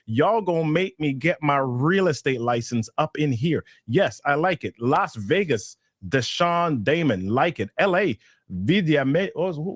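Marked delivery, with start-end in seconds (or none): none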